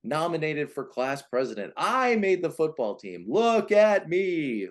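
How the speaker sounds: put-on high, slow, showing-off kid calling look at me; boastful achiever child. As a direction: brag like an eager oldest child begging for attention. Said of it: "the performer or the achiever".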